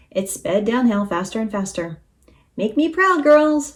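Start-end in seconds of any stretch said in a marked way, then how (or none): 2.5-3.7 high rallying shout; shouting rooster. A narrator's reading. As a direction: cheer the team on, rising in volume. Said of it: "shouted the rooster".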